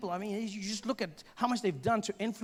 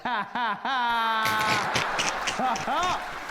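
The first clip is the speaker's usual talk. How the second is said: high, drawn-out mock cool laugh; a put-on swaggering laugh; hammed-up cool-guy laugh; laughing black; 3 semitones higher, 3 dB louder, much slower than usual. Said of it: "I was even laughing black".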